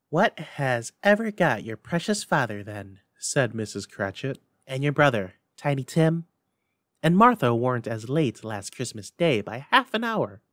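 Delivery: a hint of a fussing mother; mother fretting at the table; lightly voiced mother. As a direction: ask after them with mild worry. Mrs Cratchit voiced.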